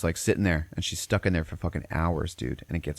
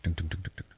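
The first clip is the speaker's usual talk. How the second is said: quick, soft thudding syllables; imitated running footsteps; 6 dB quieter than usual. Teller imitates kid running around the house, quick patter. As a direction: patter it out like little running feet. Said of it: "there's a kid running around the house".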